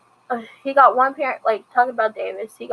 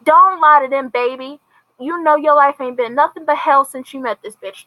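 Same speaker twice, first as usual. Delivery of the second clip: angry mother; 3 semitones higher, 4 dB louder than usual. Retold or imitated. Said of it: "talking about".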